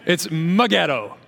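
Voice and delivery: Megiddo said slowly, me-GID-do, stress on the middle syllable; Megiddo, meh-GID-oh, unhurried and precise; slow, careful Megiddo. Shown as a demonstration. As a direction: spell out Megiddo so no one hears ghetto. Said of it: "Not the ghetto".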